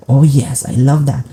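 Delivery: imitated shock. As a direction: act out a fan's pleasant surprise. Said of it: "he was shocked".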